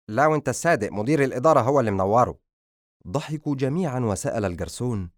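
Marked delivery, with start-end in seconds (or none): 0.1-2.4 louder, higher joking reply; breezy regular customer showing off; jovial banter. Acted. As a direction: toss a compliment back at the waiter. Son jokes back at fawning waiter.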